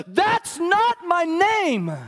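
high, loud, slow insistence; a small girl furiously defending her name; furious little girl. Retold or imitated. Pastor voicing Lila to her teacher, high, loud and furious. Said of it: "And Lila was furious".

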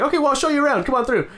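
lightly voiced host, high and breezy; mock welcoming host. Guide welcoming the hero into the fight club, mock breezy host voice. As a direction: play the smooth guide showing off his place.

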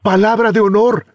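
high jeering laugh through words; mocking laughter. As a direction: laugh off his word of honor.

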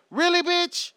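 high, scornful "really"; incredulous. Acted. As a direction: sneer in disbelief. Repeated mocking disbelief.

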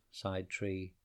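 put-on gentle storyteller reading a rhyme to children; story narration. A narrator's reading. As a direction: lilt it like a bedtime poem. Reads a rhyming story aloud.

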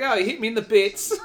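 comic English accent, hammed-up hurt. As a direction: play a Brit wincing, English accent. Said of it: "alternative slang like that".

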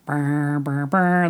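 humming a brassy horn riff; imitating horns. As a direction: buzz the lips like a horn. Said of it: "There's these, like, horns".

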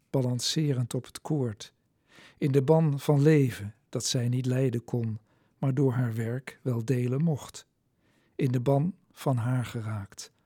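measured reading, pausing after each line; poem recitation. Acted. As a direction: open each stanza firmly, let it settle. Reads own poem aloud. (plechtig voorgedragen gedicht)

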